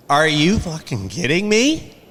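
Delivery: mock outraged dad; retold angry disbelief. Father's outburst retold.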